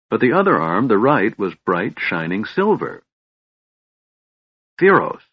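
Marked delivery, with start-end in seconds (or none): 4.8-5.2 a high, tight, choked cry of the name; strangled voice. Acted. Tass stares at the silver arm, strangled high cry. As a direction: squeeze the name out in shock. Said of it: "Tass said in a strangled voice".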